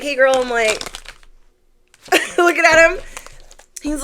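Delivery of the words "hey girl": a lightly voiced drunk stranger; imitating the drunk guy. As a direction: play the stoned guy hitting on her. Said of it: "And he was like".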